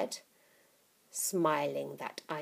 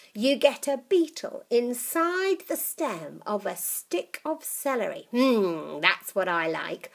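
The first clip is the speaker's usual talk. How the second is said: put-on old witch voice; 5 semitones higher, 5 dB louder than usual. Grandma voiced.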